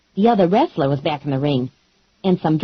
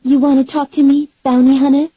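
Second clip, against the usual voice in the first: higher and louder, calling out from the stage; taunting emcee; 8 semitones higher, 5 dB louder, faster than usual. Acted. Mary Maggie taunting the bounty hunter over the microphone, loud and showy. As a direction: challenge her in front of the crowd.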